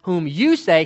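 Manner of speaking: YOU picked out in the phrase; pointed emphasis on YOU; stress on YOU. Shown as a demonstration. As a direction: punch the word "you". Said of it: "The reason I say "whom you say".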